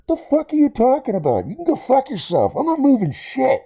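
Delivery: very high, heated tirade; acted angry yelling. Renter cursing out stranger in the street, high angry yelling. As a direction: act out yelling at him, pitch shot right up.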